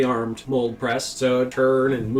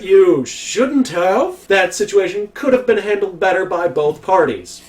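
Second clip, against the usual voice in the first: slow, louder stern boss; 6 semitones higher, 6 dB louder than usual. Retold or imitated. Boss scolding the worker, slow and stern. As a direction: lecture him, drawn out, like a boss. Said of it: "I went".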